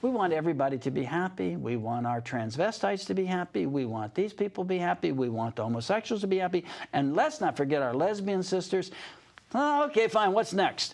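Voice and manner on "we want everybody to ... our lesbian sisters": lightly mocking happy activist; wishy-washy, happy. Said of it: "they're kinda smiling and happy".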